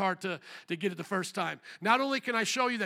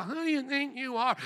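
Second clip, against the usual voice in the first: higher-pitched mock indignation; mock Karen; 4 semitones higher than usual. Preacher mocking the crowd as Karens, indignant. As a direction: put on an affronted Karen's challenge. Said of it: "They had Karens back in the Bible".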